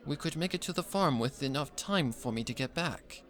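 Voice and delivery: gently voiced musician sister; Octavia, composed sister.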